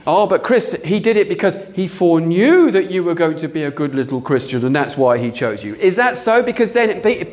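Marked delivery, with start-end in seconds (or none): 0.1-5.7 lower, mocking voice of a doubter; mock objector. Preacher mocking a doubter's argument, lower mocking voice. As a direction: play the smug objector you're refuting.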